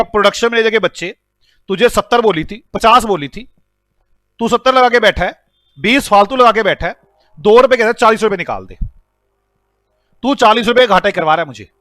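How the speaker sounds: mild mock telling-off; acted scolding. Boss blames production manager for his loss, mock scolding. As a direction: play an aggrieved boss scolding an underling. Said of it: "मैं अब डांट रहा हूं".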